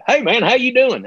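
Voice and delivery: high-pitched, imitated cabbie greeting; imitated taxi driver. Comic retelling a San Antonio taxi ride, imitated cabbie voice. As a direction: mimic a cabbie's high, twangy hello. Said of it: "and the guy's like".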